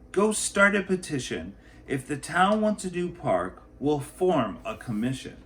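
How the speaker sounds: a leader announcing a decision; the mayor. Acted. Mayor voiced in picture book.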